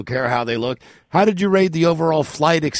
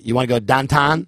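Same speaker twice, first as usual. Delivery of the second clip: "downtown" said as "dahntahn", flat Pittsburgh vowels; mimicking how Janet's family says "downtown", Pittsburgh accent. Shown as a demonstration. Showing the hosts a Pittsburgh downtown, light Pittsburgh accent. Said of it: "here's what they say".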